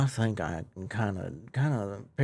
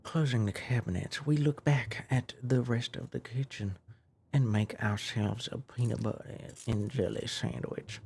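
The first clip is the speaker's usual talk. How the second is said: put-on Texas accent. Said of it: "Okay, now it's Texas".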